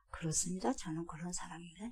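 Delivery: whispered, soft admission of guilt; hushed confession. Acted. Preacher whispers a sinner's humble confession to the congregation, hushed. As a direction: breathe it out like a quiet confession.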